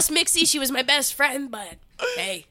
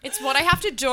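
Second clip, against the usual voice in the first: put-on Australian accent; 2 semitones higher, faster than usual. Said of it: "Oh, that was good".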